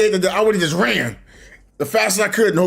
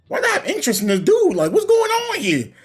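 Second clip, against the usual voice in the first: laughing in disbelief; 7 semitones higher than usual. Retold or imitated. Laughing at own confused crush.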